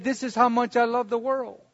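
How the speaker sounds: soft, tender reply; softly voiced Jesus.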